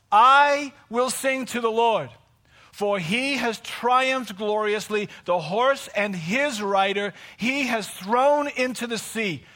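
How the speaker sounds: slow, solemn reading of the song; scripture reading. Acted. Preacher reading the Red Sea song, slowly. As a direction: read the verses with weight.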